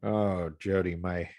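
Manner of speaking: stuffy nose from allergies; congested. Real, not acted. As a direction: talk through blocked sinuses. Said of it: "apologies ahead of time for the way that I sound".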